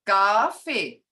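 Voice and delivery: Coffee drawn long on its tone; dragged-out tone. Shown as a demonstration. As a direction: drag out the first vowel of Coffee. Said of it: "it's dragged out".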